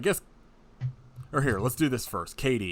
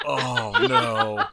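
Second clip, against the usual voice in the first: alarmed; 4 semitones higher, 9 dB louder than usual. Retold or imitated. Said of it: "and I'm like".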